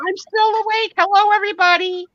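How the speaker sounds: high, eager yeah heck yeah; excited reply. Retold or imitated. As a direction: chirp it out, wide awake and indignant. Announcing to the room.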